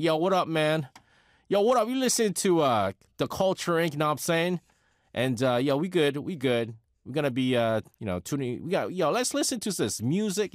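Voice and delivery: lightly put-on New York street accent; New York gangster kid. Host mimicking his old off-air self, light New York gangster-kid accent. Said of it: "young gangster kid from New York".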